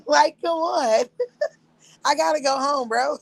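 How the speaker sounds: high voice breaking with laughter; laughing through words. Real, not acted. Mocking his begging, laughing through it. Laughing while quoting him.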